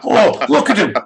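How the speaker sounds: excited jeer. Real, not acted. Mocking the guest's look.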